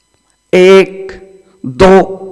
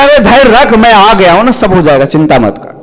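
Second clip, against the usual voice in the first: reassuring saint. Acted. Saint comforts weeping man.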